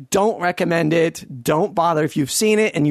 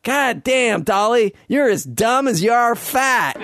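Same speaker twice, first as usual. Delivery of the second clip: mocking quote, pitched up, with a laugh; retold insult; 5 semitones higher than usual. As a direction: jeer it out, laughing at the dumb kid. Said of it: "and then she says".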